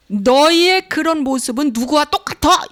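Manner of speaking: mock taunt. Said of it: "이렇게 말하잖아".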